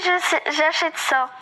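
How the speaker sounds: false start "je sais" before "j'achète"; tongue-tied slip. Real, not acted. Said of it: "je zozote". (langue qui fourche sur « j'achète »)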